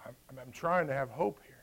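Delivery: trying to hold it together; shaky stammer of fragile hope; broken, halting hope. Acted. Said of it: "approaching that den like".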